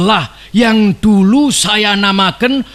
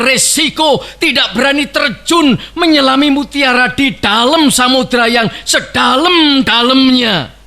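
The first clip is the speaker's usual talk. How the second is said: rousing shout; 2 semitones higher than usual. Real, not acted. Orator urging courage to crowd.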